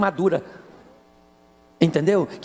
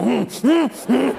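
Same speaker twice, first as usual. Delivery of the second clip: sulky hums; 4 semitones higher, much slower than usual. Retold or imitated. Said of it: "E ela fala".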